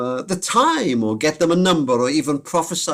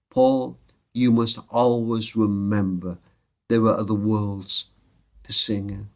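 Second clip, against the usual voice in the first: tender message; 5 semitones lower than usual. Retold or imitated. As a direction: hand over a dying friend's last words gently. Dead friend's message relayed.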